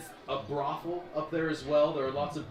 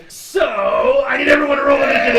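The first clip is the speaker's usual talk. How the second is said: higher, much louder, fast call; shouting; 9 semitones higher, 13 dB louder than usual. Real, not acted. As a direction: yell it out to the whole table. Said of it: "GM shouts to table".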